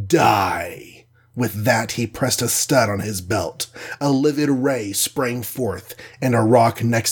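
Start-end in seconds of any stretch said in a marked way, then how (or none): 0.1-1.1 a sudden shout on the last word; the alien shouts his verdict; shouted threat. Acted. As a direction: bark out the final word as a threat. Alien finishes death threat.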